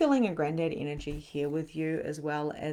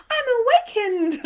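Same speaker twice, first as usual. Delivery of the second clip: mock enlightened; 8 dB louder than usual. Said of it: "It's not like we just go".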